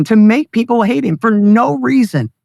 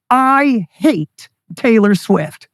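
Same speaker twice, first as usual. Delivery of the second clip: all-caps shout; much slower than usual. Retold or imitated. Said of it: "He wrote in all caps on Twitter".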